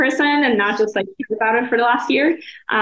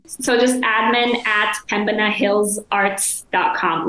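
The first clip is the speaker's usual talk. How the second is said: admin at pembinahillsarts dot com spelled out slowly; slow, emphasized email address; slower than usual. Shown as a demonstration. Slowly spelling the gallery email out for listeners. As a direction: stretch each part of the address so it's clear. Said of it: "That's why I'm emphasizing it".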